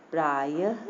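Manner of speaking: प्रायः ending in an audible ह puff; breathed ha ending. Shown as a demonstration. Teacher demonstrates visarga, प्रायः with final ha. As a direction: sound a clear ह at the end of प्रायः. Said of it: "हा निकला ना".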